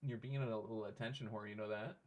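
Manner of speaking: mildly exasperated, gently shooing the pet; soft pet scolding. Real, not acted. Owner quietly shooing the pet off his monitor.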